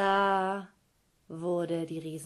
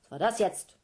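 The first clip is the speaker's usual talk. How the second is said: puzzled giant mother; 3 semitones higher, 6 dB louder than usual. Acted.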